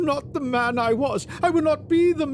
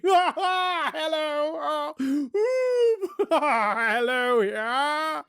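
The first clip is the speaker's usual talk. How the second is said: high, laughing, breathless joy; giddy Scrooge; 7 semitones higher than usual. Acted. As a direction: bubble over like a delighted child.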